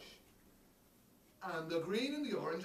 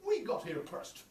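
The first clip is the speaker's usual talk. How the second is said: much higher, louder goat protest; a goat shouting its claim; high, loud stubborn goat; angry goat; 14 dB louder than usual. Acted. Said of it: "And the goat said".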